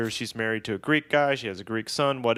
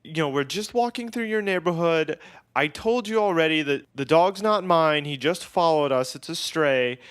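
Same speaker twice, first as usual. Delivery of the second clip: lightly voiced exasperated guide, higher pitch; tour guide; 6 semitones higher, 3 dB louder than usual. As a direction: imitate a guide explaining over an argument. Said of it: "our tour guide was like".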